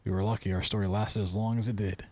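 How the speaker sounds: love letter read out, lifted a little. Acted. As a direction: read it aloud as a personal letter. Reads a break-up letter.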